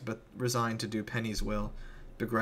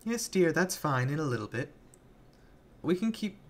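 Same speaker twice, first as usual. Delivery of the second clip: put-on a creepy girl humouring a grown-up; lightly voiced syrupy child villain; Penny's sweet voice; 6 semitones higher than usual. Penny's sugary adult-placating voice.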